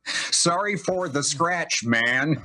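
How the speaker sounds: slow, lazy stoner read. Retold or imitated. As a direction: draw it out like a stoner. Reading out the stoner's note.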